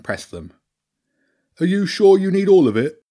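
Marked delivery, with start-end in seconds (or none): 1.6-3.0 high, loud wheedling rat; hopeful Bobby. Acted. Hungry rat eyes girl's dog, high hopeful plea. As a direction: ask hopefully in a raised rat voice. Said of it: "Bobby asked hopefully".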